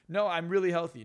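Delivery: mock protest. Mimics self-deceiving people's protest.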